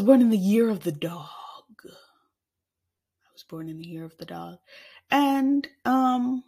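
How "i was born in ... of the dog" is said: softer, slower, lower take. Shown as a demonstration. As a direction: drop it low and slow. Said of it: "repeated in other voice".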